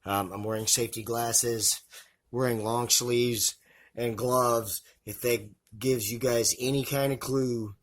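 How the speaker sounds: muffled through a face covering. Real, not acted. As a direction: talk with mouth and nose covered. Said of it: "I apologize if my voice sounds a bit muffled".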